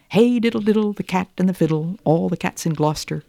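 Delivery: lightly voiced cat, high start then fading; a hint of a lonely cat, trailing off; wistful cat. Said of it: "said Simpkin".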